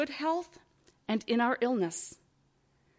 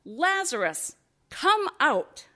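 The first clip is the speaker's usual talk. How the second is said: a raised summoning cry; cried out command; 4 semitones higher, slower than usual. Acted. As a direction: call him out of the tomb. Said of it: "And he cried out".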